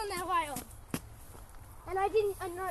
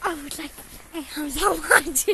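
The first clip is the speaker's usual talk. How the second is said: French accent; 5 semitones lower, 6 dB louder than usual. Shown as a demonstration. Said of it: "I can do a French accent".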